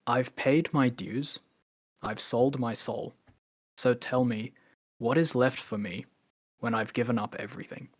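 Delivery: spoken lyric, spaced line by line; quoted song lyric. Retold or imitated. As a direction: recite it deliberately, pausing after each phrase. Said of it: "the lyric goes like this".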